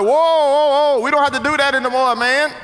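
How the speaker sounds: loud, quick "whoa" objection; startled protest. Retold or imitated. Young man objecting at the back door, startled protest.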